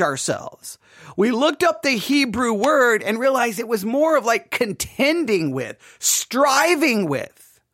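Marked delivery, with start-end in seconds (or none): none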